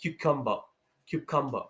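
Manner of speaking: cucumber as KYOO-kum-ber; cucumber, stressed first syllable; correct cucumber. Shown as a demonstration. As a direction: open with a clear KYOO in cucumber. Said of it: "start calling it".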